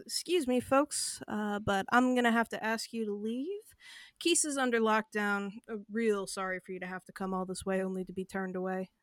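faint southern cadence, not fully committed; hint of southern accent. Dwarven guard turning travelers away, hesitant southern accent. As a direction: hold back on a slight southern accent. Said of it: "the air of someone who would be doing a southern accent".

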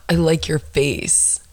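slow mock compliment; imitated mumbler. Woman quoting a stranger's compliment, slow mock mumbler. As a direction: mimic a guy's slow, drawn-out compliment.

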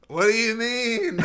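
high slow spooky ghost. Pretend. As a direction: moan it like a ghost. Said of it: "That's my ghost voice".

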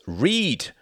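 loud, high one-word shout; barked command. A narrator's reading. Jorgen whirls on Klaus, barked order. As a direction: round on him and bark it. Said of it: "whirled on Klaus".

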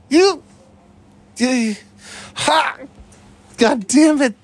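being tickled. Real, not acted. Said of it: "I'm ticklish everywhere".

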